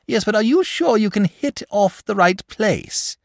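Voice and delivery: high, worried question; anxious. A narrator's reading. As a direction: dragon doubting George's aim, anxious. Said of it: "asked the dragon anxiously".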